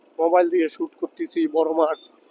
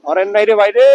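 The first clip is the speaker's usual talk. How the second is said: calling out; 2 semitones higher, 5 dB louder than usual. Real, not acted. Calling out to traffic from bike.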